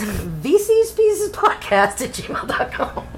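slow, deliberate dictation of the email; slow spelled-out address. Shown as a demonstration. Host spelling the email for listeners, slow. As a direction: read it out slowly for listeners to note down. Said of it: "reads out podcast email slowly".

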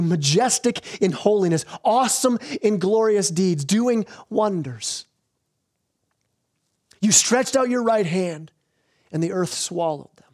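measured, solemn reading of a psalm-like song; scripture reading. Acted. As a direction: read the verses with reverent weight. Reads scripture song aloud.

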